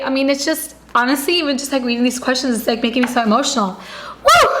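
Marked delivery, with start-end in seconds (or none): 4.2-4.5 a loud, sudden whoop to shake off the tears; excited whoop. Real, not acted. Vlogger whooping to viewers after getting emotional. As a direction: let out a happy woo. Overwhelmed by emotional journal questions.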